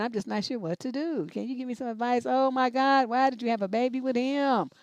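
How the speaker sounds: ordinary delivery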